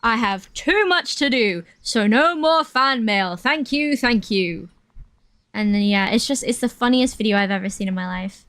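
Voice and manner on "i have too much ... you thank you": Impression of a famous rock drummer. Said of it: "he just says".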